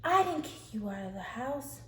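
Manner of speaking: high-pitched, indignant retort; retold snap. Sister denies kicking Rebecca out, retold snapping. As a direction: snap back in mock denial. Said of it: "Leah snaps".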